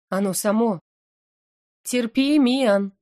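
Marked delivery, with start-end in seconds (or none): 1.8-2.9 higher, louder appeal; urging call. Acted. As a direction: urge her sister to hold on. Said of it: "взывала ко мне сестра". (взывать, громче и выше)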